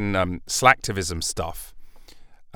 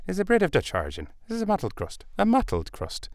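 high mock pronouncing; 9 semitones higher, faster than usual. Playing with the word mottled.

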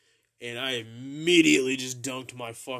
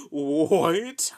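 a loud, higher, disbelieving "What?"; mock loud outburst; 4 semitones higher, 10 dB louder than usual. Friend losing it over the marshmallows, loud mock yell. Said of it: "She loses her shit".

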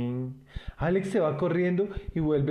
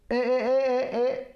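frightened protest; 10 semitones higher than usual. Acted. Alex recoiling from the fairy's needle, high and nervous. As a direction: back away from the needle in alarm. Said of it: "sin querer ni mirarla".

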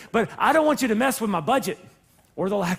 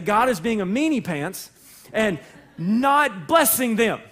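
put-on childish whine; slower than usual. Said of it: "as my kids used to say".

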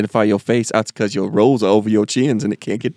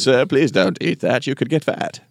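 polite app voice; 3 semitones higher than usual. Pretend. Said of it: "I want it to be nice and pleasant".

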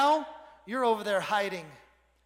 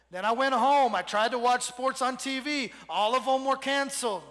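lightly voiced whining complainer, fast at the end; whiny Gideon. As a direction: whine about being stuck at home, rushing. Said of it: "Gideon goes and he whines to God".

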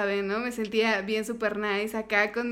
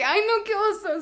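embarrassed; 8 semitones higher than usual. Real, not acted. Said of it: "sigo sin superarlo".

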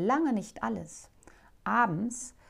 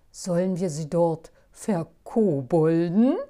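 louder, cheeky goblin crowing; cocky crowing; 2 semitones lower, 8 dB louder than usual. Acted. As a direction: crow it, full of mischief. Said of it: "krähte er übermütig".

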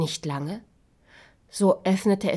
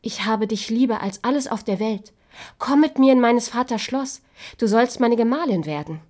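higher and louder, ardent; eager proposal; 4 semitones higher, 4 dB louder than usual. Acted. Prince asking the girl to marry him, eager and loud. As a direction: ask her eagerly.

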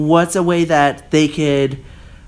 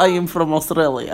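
a failed, barely Australian put-on accent; hammed-up bad Australian accent; 3 semitones higher than usual. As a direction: try an Aussie accent and miss it. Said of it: "That didn't work at all".

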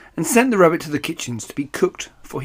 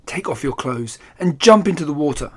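ordering. Acted. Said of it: "he ordered".

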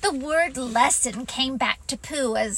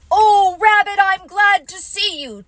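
high, louder mock-meek Tigger greeting; humble Tigger; 7 semitones higher, 7 dB louder than usual. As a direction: play a humbled Tigger, gushing a little. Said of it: "he'll be a humble Tigger".

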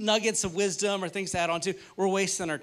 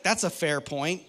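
sheepish concession; 3 dB louder, slower than usual. Retold or imitated. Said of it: "And I was like".

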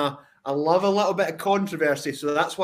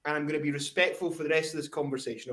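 toned down; 6 dB quieter, faster than usual. Real, not acted. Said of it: "I'm gonna retract a little bit".

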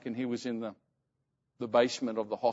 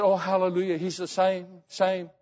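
higher-pitched imitation of devout mother; praising God; 5 semitones higher than usual. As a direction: lightly act out her hallelujah fervour. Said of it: "she was praising God".

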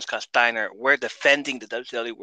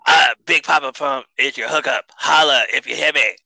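louder, brash wrestler promo; a louder, swaggering wrestler catchphrase; imitating Scott Steiner; 5 dB louder than usual. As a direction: hype it up like a heel's promo. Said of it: "He talks like this".

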